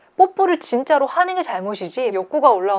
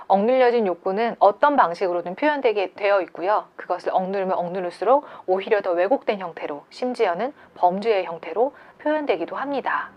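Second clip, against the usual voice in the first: usual speaking voice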